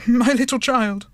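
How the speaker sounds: grief breaking through. Acted. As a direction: let the grief break out on the repeat. Father grieving for dead Tiny Tim.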